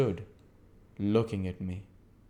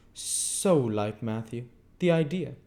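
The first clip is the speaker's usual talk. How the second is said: prim lady; 5 semitones higher, 4 dB louder, slower than usual. Acted. Camilla voiced.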